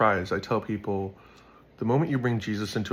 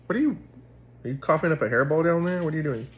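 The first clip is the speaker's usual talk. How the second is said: startled at the cat; 8 semitones higher, 4 dB louder, faster than usual. Real, not acted. Talking down to his cat.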